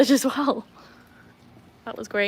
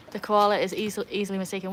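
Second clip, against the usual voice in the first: stumbling over the words; stutter. Real, not acted. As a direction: repeat "easily" as a stutter. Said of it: "I stuttered all over the place there".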